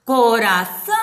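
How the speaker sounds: "Coração" in syllables, with ÇÃO held very long; stress on ÇÃO. Shown as a demonstration. Teacher marking the accented syllable, "Coração" with a long ÇÃO. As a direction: sound out "Coração", stretching the ending. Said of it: "onde tem acento".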